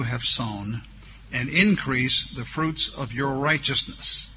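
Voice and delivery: slow, drawn-out reading of scripture; measured, solemn Bible reading. Acted. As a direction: lift the opening, then read it solemnly. Reads scripture aloud.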